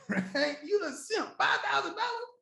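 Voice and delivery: high, mocking taunt; mock scoffing critic. Mocking a broke doubter, pitched high and scoffing. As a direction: mimic the doubter calling him a simp. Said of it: "you're looking up at me and saying".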